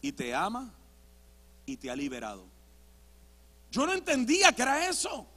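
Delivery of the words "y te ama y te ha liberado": very soft, low, with weighty pauses; hushed preacher reply. Retold or imitated. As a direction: deliver it gently and very quietly. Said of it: "Desde allá abajo me decía". (predicador en voz baja y solemne)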